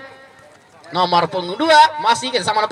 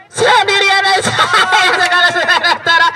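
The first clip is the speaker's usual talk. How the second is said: laughing; 5 semitones higher, 3 dB louder than usual. Real, not acted. Laughs during commentary.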